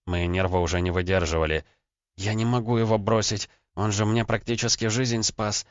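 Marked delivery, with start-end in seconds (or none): 2.2-5.7 mild sobbing. Acted. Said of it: "снова зарыдала Лена".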